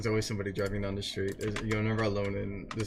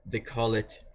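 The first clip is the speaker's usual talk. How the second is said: put-on Jersey accent on Joycey, said lightly; a light put-on New Jersey twang; lightly played Jersey accent; mock Jersey accent; slower than usual. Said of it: "No, I'm putting on an accent".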